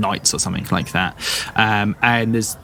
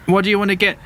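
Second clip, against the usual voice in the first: suspicious farm woman; 7 semitones higher than usual. Acted. Farm woman questioning the adventurers, high and suspicious. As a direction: press the strangers for a reason.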